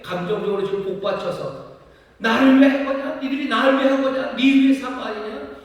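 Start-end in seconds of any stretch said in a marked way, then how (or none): 2.2-5.5 higher and louder, heated and accusing; God's indignant rebuke. Acted. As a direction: voice God as his anger wells up. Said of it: "왜 이렇게 격앙되게 계십니까?".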